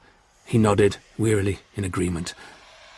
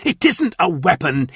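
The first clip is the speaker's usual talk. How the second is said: nervous insisting; 7 semitones higher than usual. A narrator's reading. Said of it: "insisted Clent nervously".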